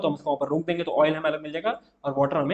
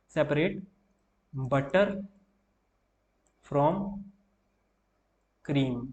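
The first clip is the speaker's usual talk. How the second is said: word by word with long pauses, for notes; slow, spaced dictation for students taking notes; 4 dB quieter, much slower than usual. Shown as a demonstration. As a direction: spell it out slowly so they can write it down. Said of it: "धीमे ही बोलूँ".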